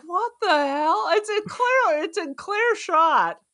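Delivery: high, stretched mock disbelief. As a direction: sound baffled, voice up high. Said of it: "I was like".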